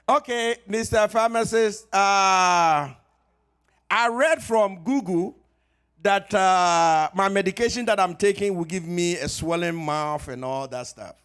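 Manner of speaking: lightly voiced worried caller; caller with a complaint. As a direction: play the worried caller who read Google. Caller voiced citing Google.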